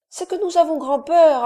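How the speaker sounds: high, loud small voice full of fear; a younger child admits being scared; frightened child. A narrator's reading. Young child tells Briand they are very afraid, high and loud. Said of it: "ajouta le second enfant".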